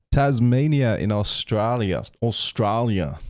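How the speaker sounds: playful attempt at an Australian accent. Greeting Tasmania viewers, mock Australian accent. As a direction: put on a rough Australian accent. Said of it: "That's a terrible Australian accent".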